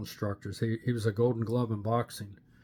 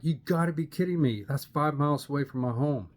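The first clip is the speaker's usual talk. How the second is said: higher, excited can't-believe-it voice; amazed disbelief; 4 semitones higher than usual. Retold or imitated. To the new recruit from next door, amazed disbelief. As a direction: sell the happy shock of the coincidence. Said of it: "I'm like".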